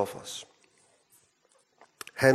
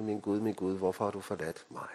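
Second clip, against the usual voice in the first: "Min Gud, min Gud" said much softer, sinking low; hushed cry; 5 semitones lower, 10 dB quieter, faster than usual. Acted. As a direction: let the cry fade to a hush. Same cry, now hushed, after closed heaven. (stille, dæmpet råb fra korset)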